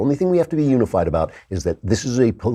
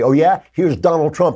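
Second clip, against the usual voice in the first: mock reply; 7 semitones higher, 3 dB louder than usual. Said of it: "suddenly you say".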